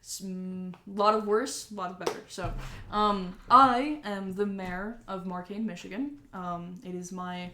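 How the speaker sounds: lightly voiced businessman; welcoming and chatty; friendly mayor voice. Mayor introduces himself.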